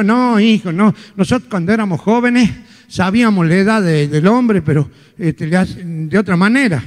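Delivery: low, lightly voiced little old lady; a hint of a doddering grandmother. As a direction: talk like a chatty grandma.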